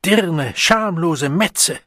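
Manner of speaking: drawn-out angry condemnation; furious insult. Acted. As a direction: spit out each insult slowly. Man hurls insults at her.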